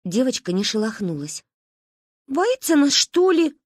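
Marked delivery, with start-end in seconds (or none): 2.3-3.6 a touch of cocky challenge in a high voice; belligerent. Acted. Manka sniffs and asks belligerently. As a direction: sound combative about it. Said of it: "воинственно шмыгнула носом Манька".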